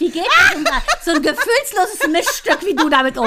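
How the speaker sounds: high, laughing mock outrage; laughing tease. Real, not acted. Teasing her co-host as heartless, laughing high. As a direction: squeal it through laughter.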